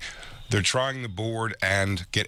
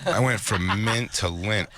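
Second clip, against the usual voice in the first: "I went from Mint to Lint" said slowly through laughter; can't get the pun out without cracking up; laughing; slower than usual. Real, not acted. Repeating the Mint-to-Lint line to his laughing friend, laughing. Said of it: "repeats the line laughing".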